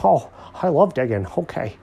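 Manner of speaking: high, eager cartoon voice; delighted Alfred character. A narrator's reading.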